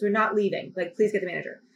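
refuse, then ask for the manager; insistent refusal. Retold or imitated. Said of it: "I said".

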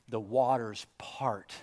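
slow hushed whisper of wonder; awed whisper. Acted. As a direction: breathe it out like a secret. Awed hush at miracle.

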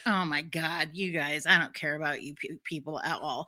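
soft, weary brush-off; dismissive. Retold or imitated. Black guy shrugging off the couple, soft weary brush-off. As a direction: mutter it, too tired to care. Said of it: "shakes his head like".

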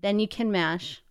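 reading song lyrics aloud with light rhythm; half-chant the lyrics without singing. Acted. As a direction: lyrics read straight through. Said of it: "I'll just read it straight through".

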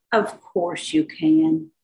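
slow, lightly mocking "Of course you can"; teasing echo. Healer echoes the deputy's words back, slow and teasing. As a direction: stretch it out slowly, gently teasing.

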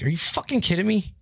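high, incredulous retold outrage at the ref; yelling back at the referee, mock outraged. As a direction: replay the disbelief at the call. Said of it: "I'm like".

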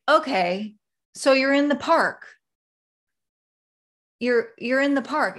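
a hint of a puzzled mother; clueless mom. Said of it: "your mom's like".

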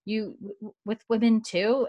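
imitating a taken-aback stutter; mock stammering disbelief. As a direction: stumble on the word, then ask incredulously. Bree hesitantly asks, acted stammer.

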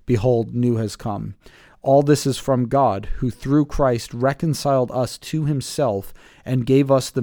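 measured public Bible reading with firm phrase openings; scripture reading. Acted. Pastor reading the passage to the group, measured scripture reading. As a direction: read it out deliberately, phrase by phrase.

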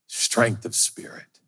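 whispered and slow; slow, hushed, reverent whisper; whispered reverence. Acted. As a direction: breathe the words with awe. Whispered virtue.

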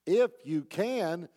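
slow, mocking echo of the father's words; mocking parrot. Jesus mocking the desperate father's doubt, slow parroting echo. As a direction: throw the father's doubt back at him, slowly. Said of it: "he's mocking, he's, he's parroting what he said".

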